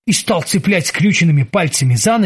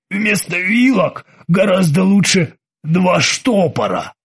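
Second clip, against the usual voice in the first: knowing Freddy; 2 semitones higher, slower than usual. Acted. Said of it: "сознанием дела заметил Фредди".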